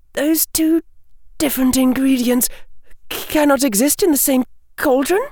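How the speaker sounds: put-on high, quick young woman's voice; blurted out. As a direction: blurt it out nervously, high and fast. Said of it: "she blurted out".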